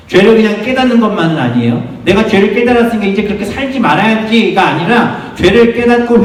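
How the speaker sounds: high, sustained preaching voice; fervent preaching. Real, not acted. Preaches with raised intensity. (힘주어 외치는 설교조)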